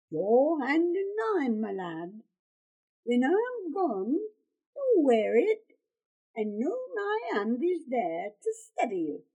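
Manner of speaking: a loving father's voice, slowing on his promise; gentle old father. Acted. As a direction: speak as a dying father to his boy. Father speaks to son.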